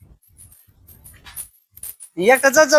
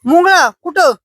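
surprised; 6 semitones higher, 5 dB louder than usual. Real, not acted. Child says ant bit him.

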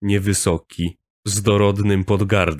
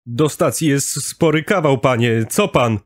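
heckling blokey man; 6 semitones higher than usual. A narrator's reading. Janusz heckles the speaker.

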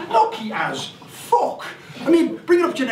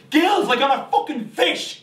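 slow, incredulous stress on gills; stunned disbelief; 5 semitones higher than usual. Acted. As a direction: repeat it like you can't believe it.

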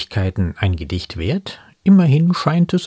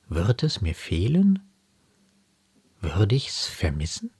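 measured verse, ending in hushed questions; poem recitation. Acted. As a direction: recite gently, pausing before each closing question.

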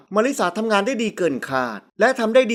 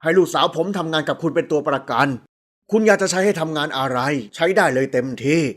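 low-pitched, earnest man's voice; lower-voiced father making assurances; deferential father; 6 semitones lower than usual.

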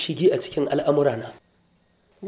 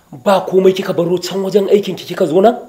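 loud, rising reprimand; scolding; 7 dB louder than usual. Acted. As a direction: demand an explanation sharply. Boss scolding worker who left post.

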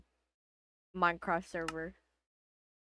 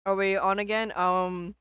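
crunching chips; 2 semitones lower, 4 dB louder than usual. Real, not acted. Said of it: "I'm eating chips".

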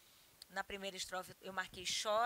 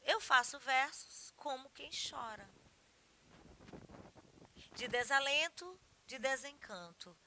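poem recitation. Acted. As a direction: recite the verse line by line. (declamação pausada de poema)

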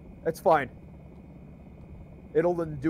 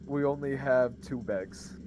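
mock shopkeeper; 5 semitones lower, 8 dB quieter than usual. Playing shopkeeper about bags.

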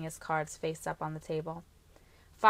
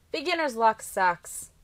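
slow, louder whiny gripe from a sore loser; sulky brother; 4 semitones higher, 7 dB louder than usual. A narrator's reading. Brother griping at the poker table, slow and whiny. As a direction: draw it out like a bad loser. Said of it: "Trenton whined".

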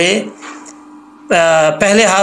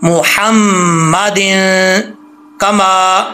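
slow मुहम्मदिन with a clear मु; careful, drawn-out मुहम्मदिन; slow recitation; much slower than usual. Shown as a demonstration. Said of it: "तवज्जो से पढ़ना है".

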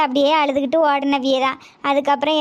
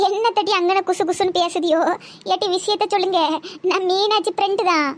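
a cranky village grandma who hates being called aachi; a hint of a sharp old woman snapping at the girls; bossy old granny; 2 semitones higher than usual. Old granny barges in, scolds.

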